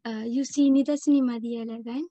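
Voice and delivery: Sri Lankan accent in halting French; French spoken with a Tamil-Sri Lankan accent; foreign accent in french. Real, not acted. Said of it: "mon français, c'est pas bien".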